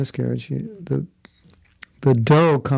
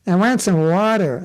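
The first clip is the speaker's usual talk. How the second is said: put-on American accent; 5 semitones higher than usual. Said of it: "turn off your British accent and say".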